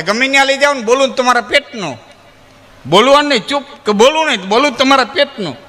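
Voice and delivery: tactless friend. Retold or imitated. Tactless friend insists on speaking.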